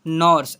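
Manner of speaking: नर्स loud, with an open vowel before r; u read as a. Shown as a demonstration. Teacher shows pupils how it is read, open a sound. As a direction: punch out नर्स with a for u. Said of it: "ऐसे पढ़ते हैं".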